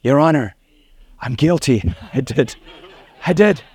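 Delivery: a lightly laughing, sheepish confession. Retold or imitated. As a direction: own up with a giggle. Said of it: "and I was".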